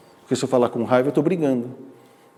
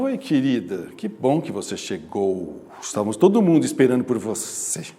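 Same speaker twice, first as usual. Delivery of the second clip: fake sweet; 5 semitones lower than usual. Shown as a demonstration. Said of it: "chega alguém que eu não gosto".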